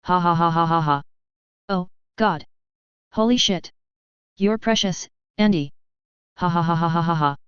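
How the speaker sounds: manic cackle with lines between; cackling like a madman. A narrator's reading. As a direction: laugh like a madman, giddy. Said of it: "started cackling like a madman".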